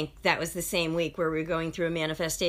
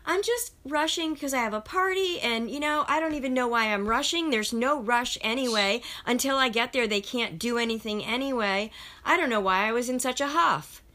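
woman's reply; 4 semitones higher than usual. Retold or imitated. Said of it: "And she's like".

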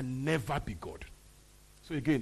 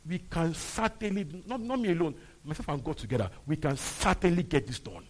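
emphatic, rallying conviction; voice of faith; 5 dB louder than usual. Acted. Preacher speaks as one partnered with God, bold and emphatic. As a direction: declare it boldly, leaning on CERTAINLY. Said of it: "That's the voice of faith".

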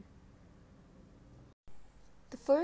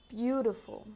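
dictating. Shown as a demonstration. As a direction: say it clearly for children to write. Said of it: "I will repeat each word two times".

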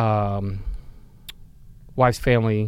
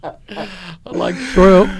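very slow, higher, louder Southern simpleton impression; Forrest Gump; 4 semitones higher, 6 dB louder, much slower than usual. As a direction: draw it out as a comic movie character. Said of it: "I got the Forrest Gump stuck".

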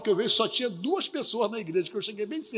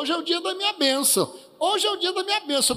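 insistent; 8 semitones higher than usual. Retold or imitated. Woman insists it's her blessing day.

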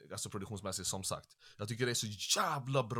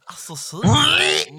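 much higher, louder, slow squeak of "seriöst"; mock squeaky echo; 13 dB louder, slower than usual. Echoing the dialect joke, a squeaky high mock. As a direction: squeak it back in a silly high voice. Repeating the dialect line mockingly.

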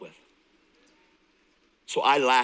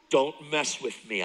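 intense warning; 3 dB louder than usual. Retold or imitated. Grabs counselor by shirt.

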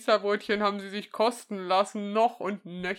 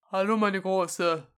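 grandpa voice; slower than usual. Pretend. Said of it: "deine beste Opa-Stimme".

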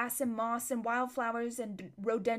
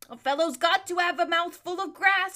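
grumbling horse; 8 semitones higher, 7 dB louder than usual. A narrator's reading. Bree voiced, complaining.

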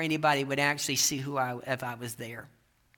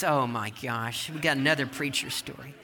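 weary dismay; 4 semitones lower than usual. Retold or imitated. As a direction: inwardly dread another long story. Diner's dismayed private thought acted out.

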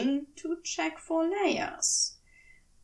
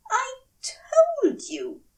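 high, slow, louder whine; drawn-out tipsy angel whine; drunk Aziraphale voice; 13 semitones higher, 5 dB louder, slower than usual. Acted.

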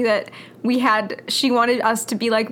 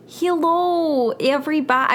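imitating Emma from TikTok; 4 semitones higher than usual. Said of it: "I'm trying to go like, "Emma," you know, from TikTok".

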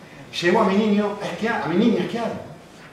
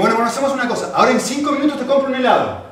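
upbeat bribe; 8 semitones higher, 5 dB louder, faster than usual. Retold or imitated. Father bribing his son with ice cream.

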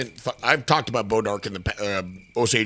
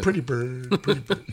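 parrot voice. Retold or imitated. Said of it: "she could quote Dumb and Dumber".

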